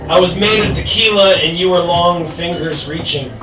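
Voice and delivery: slow, measured spoken-word poem; poetry recitation. Acted. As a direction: recite it line by line, with pauses. Recites own poem on stage.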